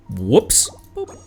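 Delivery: ordinary delivery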